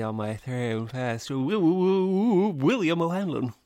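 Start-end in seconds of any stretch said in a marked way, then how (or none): 1.3-3.5 mock stutter. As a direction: stammer the name for a laugh. Mock stuttered name introduction.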